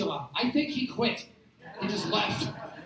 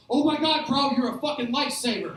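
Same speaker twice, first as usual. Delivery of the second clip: louder burst of amazed thanks; gushing relief; 5 dB louder than usual. Acted. Pizza caller thanks the manager, gushing relief. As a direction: gush at the person who saved you.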